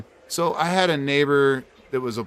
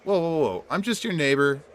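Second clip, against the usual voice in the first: startled placating; 6 semitones higher than usual. Retold or imitated. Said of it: "And I'm like".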